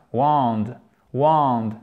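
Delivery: WAND with a long vowel, falling; voyelle longue. Shown as a demonstration. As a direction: draw out the vowel of WAND each time. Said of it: "voyelle longue". («wand» avec une voyelle longue)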